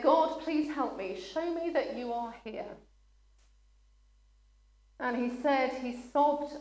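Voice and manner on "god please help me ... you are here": mild emotional prayer. Retold or imitated.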